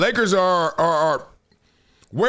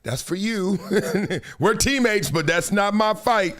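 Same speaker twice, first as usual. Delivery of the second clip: laughing quote. Retold or imitated. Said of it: "Brunson's just said".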